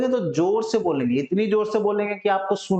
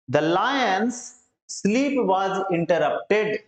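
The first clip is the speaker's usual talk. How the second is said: slow dictation; much slower than usual. Shown as a demonstration. Teacher dictates English phrase slowly.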